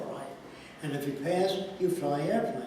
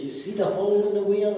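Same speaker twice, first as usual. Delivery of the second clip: put-on higher, louder child explaining; little boy explaining his fix to dad; eager little boy; 5 semitones higher, 6 dB louder than usual. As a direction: show off like a proud kid. Son voiced in story.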